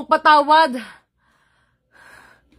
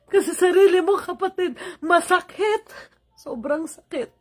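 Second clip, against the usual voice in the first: crying. Real, not acted. Hurt by own sibling.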